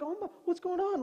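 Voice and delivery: put-on alarmed kids. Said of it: "The kids are like".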